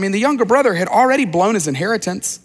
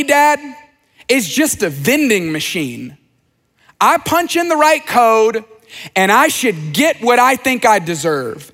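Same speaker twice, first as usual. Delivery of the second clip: put-on resentful older son; 2 semitones higher than usual. Older son's angry complaint voiced.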